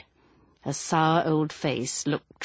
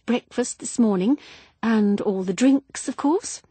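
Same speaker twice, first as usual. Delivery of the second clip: higher, gushing, flustered wife; flustered woman; 5 semitones higher, 5 dB louder than usual. Acted. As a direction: chatter on like a silly widow. Widow voiced again.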